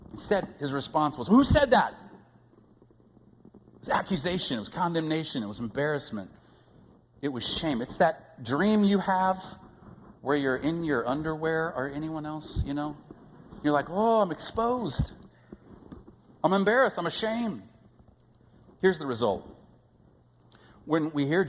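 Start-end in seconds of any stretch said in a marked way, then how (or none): 1.3-1.9 high, loud accusatory demand; accusing snap. Retold or imitated. Preacher imitating a group leader accusing a confessor, sharp loud demand. 13.9-17.6 mock embarrassment. Underwear dream embarrassment.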